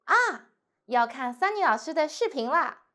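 "啊" falling, remembering; 突然想起; sudden realization. Shown as a demonstration. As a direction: exclaim it as it dawns on you. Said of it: "suddenly you realize".

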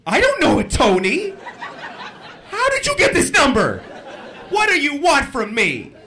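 high, loud, panicky indignation; hammed-up alarm at a wrong number; incredulous phone lady. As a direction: demand answers as if under threat. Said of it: "can't believe that you would ever get a wrong number".

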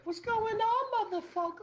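mock greeting. Shown as a demonstration. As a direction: belt out the hello like a game-show host. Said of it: "greeting every person like that".

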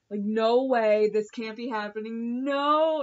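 loud protest, rising on the last no; retold disbelief. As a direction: protest loudly, reliving the shock. Retold refusal to believe scene.

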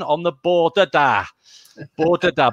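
"Border Da" as an English-sounding pun; anglicised Welsh greeting. Acted. Reader tries the pun on a Welsh good morning, anglicised.

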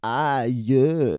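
understated, drawn-out pretend pain; deadpan ouch. After pretend mic knock to the face, muted ouch.

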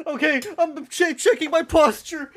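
a jokey high announcement, half laughing; mock high voice.

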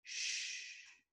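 "嘘"念成气声的sh音; 只用气息吐出"嘘"; 念出新字母的音. Shown as a demonstration. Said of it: "一个新的符号叫做什么？". (气声示范"嘘")

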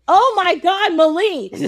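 high-pitched, gushing exclamation; acted excitement. Prince seeing his lost love, acted excitement. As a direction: burst out in playful, overjoyed surprise. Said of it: "He's so excited".

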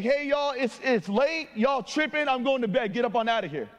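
playfully fed-up send-off; mock protest. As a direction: shoo them away in mild exasperation. Imagines sending late visitors away.

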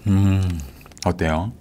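chewing while talking; eating from a cup; mouth full. Real, not acted. Seen 3: Man eats pudding from cup; speaker unclear, possibly animated girl.

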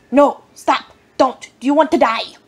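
loud plea to the deer; pleading yell. Retold or imitated. Driver loudly pleading with a crossing deer. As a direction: beg it to stop. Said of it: "I was like".

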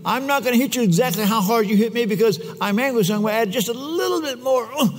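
a lightly hammed-up kid reasoning about hitting back; petulant fighter. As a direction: lay out the revenge logic smugly. Fighter voiced in story.

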